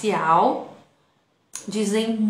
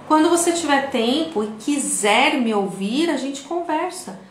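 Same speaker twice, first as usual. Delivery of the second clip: hurt, resigned quote; 4 semitones higher than usual. Retold or imitated. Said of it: "Você fala assim".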